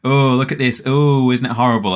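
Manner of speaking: mock-appalled chef showing kids the paste; mock disgust. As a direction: play up the revulsion for the kids. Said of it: "and he goes".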